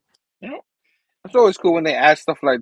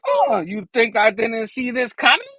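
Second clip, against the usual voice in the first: raised, taunting villain voice; Goblin; 5 semitones higher than usual. Acted. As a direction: taunt back in a high villain pitch. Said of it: "Goblin's like".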